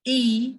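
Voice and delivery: A said as an open "ah"; French letter A. Shown as a demonstration. Teacher showing the class the French alphabet, A as "ah". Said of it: "in French as A".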